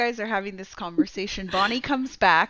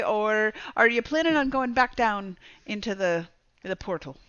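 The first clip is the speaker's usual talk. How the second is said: put-on Scottish accent. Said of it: "she just seems like she's Scottish".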